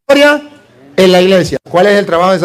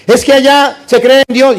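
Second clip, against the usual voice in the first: a hint of a higher, whiny objector; mock objector; 4 semitones higher than usual. Priest imitating a Catholic who left, mildly mocking. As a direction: lightly voice someone making excuses. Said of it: "¿Qué voy a hacer en la secta protestante?".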